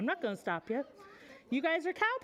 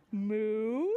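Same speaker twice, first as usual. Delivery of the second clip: mock moo; 4 semitones lower than usual. Shown as a demonstration. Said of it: "And cows go".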